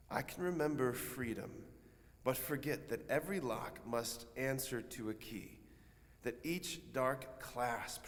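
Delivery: measured sonnet recital with pauses between phrases; restrained, contemplative recitation; poetry reading. Acted. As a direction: read the verse deliberately, unhurried. Reads a sonnet aloud.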